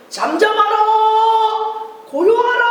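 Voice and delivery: high, loud stern command to the storm; commanding shout. Acted. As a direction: rebuke the wind with authority. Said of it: "라고 외쳤어요".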